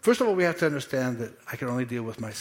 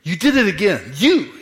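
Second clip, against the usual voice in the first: mock blaming; 7 dB louder than usual. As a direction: point the finger, half-acted scolding. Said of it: "find yourself pointing the, the fault at".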